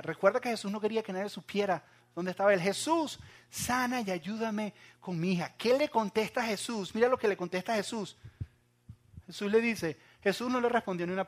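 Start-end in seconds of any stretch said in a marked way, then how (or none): 2.6-5.5 pleading call. Retold or imitated. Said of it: "está atrás gritando".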